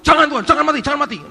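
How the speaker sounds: high-pitched impulsive objection; rash, energetic protest. Acted. Simon objects to the Lord dying, impulsive. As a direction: blurt out a frantic mimicked protest. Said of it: "Energik tapi ngawur".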